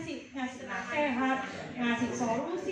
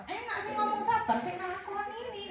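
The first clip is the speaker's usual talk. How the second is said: resentful retort; 6 semitones higher than usual. Acted. Client snaps back at counselor.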